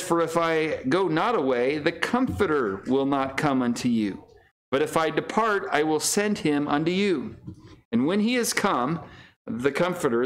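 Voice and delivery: scripture reading. Acted. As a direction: read the old verses out with solemn weight. Reads King James scripture aloud.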